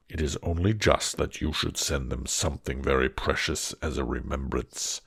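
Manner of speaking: low, looming beast voice; a monster asking gently. Acted. Beast asks Beauty if she came willingly, low and heavy.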